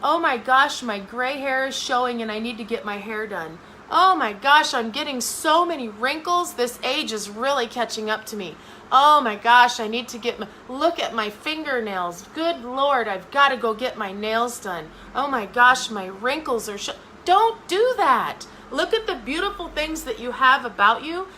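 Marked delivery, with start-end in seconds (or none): 0.0-16.9 hammed-up self-criticism; self-critical fretting. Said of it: "Don't sit there and go". 17.2-18.5 high, slow firm don't do that; stern slow warning; emphatic. Real, not acted. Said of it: "scolding the audience".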